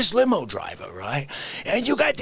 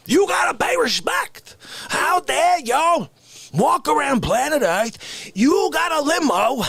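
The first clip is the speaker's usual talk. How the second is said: mock rant; 4 semitones higher than usual. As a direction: scold the driver with fake fury. Rant at limo driver.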